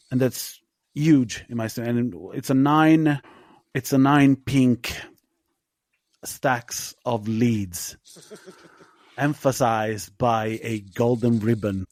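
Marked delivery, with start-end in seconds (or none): 2.0-8.0 savoring the score with slow, heavy stress; slow emphatic verdict. Real, not acted. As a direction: lay out "it's a nine pink stacks of leads" word by word, very slowly.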